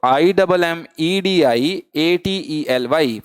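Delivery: spelled out slowly letter by letter; slow, deliberate letter-by-letter spelling. Shown as a demonstration. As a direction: dictate each letter for the class. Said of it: "फिर से बोलिए मेरे साथ".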